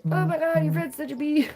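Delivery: high, squeaky-cute gossip voice; imagined little-faces voice. Pretend. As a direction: pitch way up as little pretend characters. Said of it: "They'll be like".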